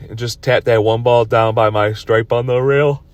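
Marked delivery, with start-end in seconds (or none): 2.6-3.0 talking through a yawn; slow, yawning words. Real, not acted. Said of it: "I'm sorry for yawning".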